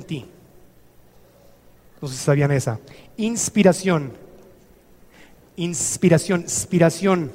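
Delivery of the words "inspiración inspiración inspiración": "Inspiración" slowly, the first syllable held apart; word broken apart. Shown as a demonstration. Teacher shows the word's roots, "Inspiración" slowly split. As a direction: draw out the "In" of "Inspiración", then the rest.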